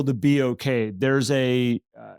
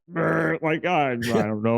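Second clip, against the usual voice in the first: mock nervous shiver; slower than usual. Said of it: "everybody in the room go like".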